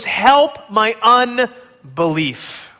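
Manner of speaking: slow, drawn-out plea; slow pleading cry. Acted. Listener in doubt crying to God, slow plea. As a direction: stretch the words out as a prayer. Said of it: "all you could say was".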